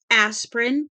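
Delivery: high, loud furious shriek. A narrator's reading. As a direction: scream the word at him. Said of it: "This time she shrieked it".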